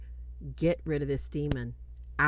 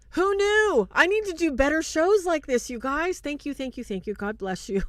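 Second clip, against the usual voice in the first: high, loud squealing gratitude; overjoyed thanks; 11 semitones higher, 5 dB louder than usual. Real, not acted. Host thrilled by donations mid-show, high squealing thanks. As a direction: bubble over with joy.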